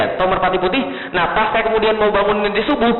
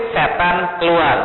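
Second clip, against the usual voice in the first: spooky warning; 2 semitones lower, much slower than usual. Retold or imitated. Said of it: "ibunya bilang".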